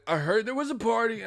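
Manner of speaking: put-on high-pitched white-boy cheering; Bob from marketing. Bob cheering Gina on, high put-on voice. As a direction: chant it high, in a goofy put-on voice. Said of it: "Bob from marketing".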